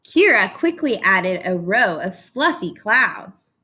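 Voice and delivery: lively read-aloud storytelling; story narration. A narrator's reading. Teacher reading to her class, animated storybook narration. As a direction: read it like a picture book to a class.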